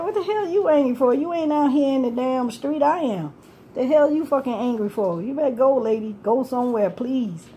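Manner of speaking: mock-indignant retelling of a street argument; retold telling-off. Retold telling-off of angry lady.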